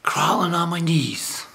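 drawn out slowly, a solemn hook; slow it down to hook the listeners; slow dramatic opener. Shown as a demonstration. Preacher opening his talk, slow and solemn. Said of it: "why I'm saying crawling on my knees".

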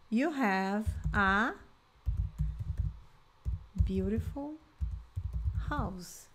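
slow, deliberate teacher modelling; slow model sentence. Shown as a demonstration. Teacher modelling an English sentence for students, slow. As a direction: space the words out slowly for the learners. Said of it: "Então, you".

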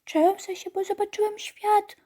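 very high, tiny voice fading to a slow whisper; a scared chick peeping from its egg; squeaky frightened baby-chick voice; trembling little chick. Retold or imitated. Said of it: "jak takie małe kurczaczki w jajkach".

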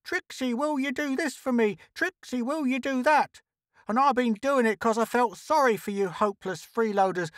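high-pitched aggrieved tirade; indignant high character rant; crying out. A narrator's reading. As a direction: rail on in a high, put-upon voice. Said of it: "Trixie cried on".

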